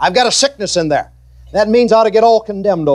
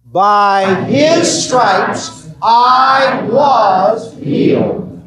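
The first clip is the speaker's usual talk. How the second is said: slow congregational shout; much slower than usual. Shown as a demonstration. Preacher leading the congregation in a slow shouted confession. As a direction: belt it out slowly for the room to echo. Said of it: "say it with me".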